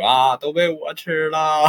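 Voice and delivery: scared confession. Retold or imitated. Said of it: "我说".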